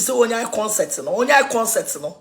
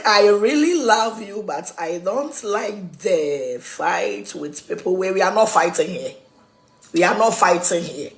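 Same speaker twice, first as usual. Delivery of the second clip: mock pleading; 4 semitones lower than usual. Acted quote of someone pleading.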